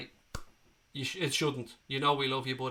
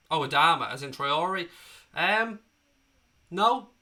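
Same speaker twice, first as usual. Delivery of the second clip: excited realisation; 2 semitones higher, 6 dB louder, slower than usual. Real, not acted. Realises which player is meant.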